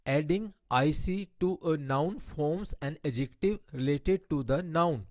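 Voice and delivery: slow, deliberate reading of an English grammar rule. Shown as a demonstration. Teacher reading a grammar rule to her Hindi-speaking class, slow and deliberate. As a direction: spell out the rule word by word for students.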